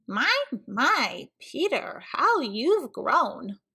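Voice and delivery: put-on slow, lightly quavery old man; mock grandpa voice. Archie as grandpa greets Peter, slow and old. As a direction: drag out "how you've grown" like a grandpa.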